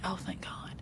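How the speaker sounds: breathy whispered sigh of relief; hushed mock relief; relieved whisper. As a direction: whisper it like a tired dog finally resting. Dog's relief voiced in story.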